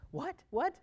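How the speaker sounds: ordinary talk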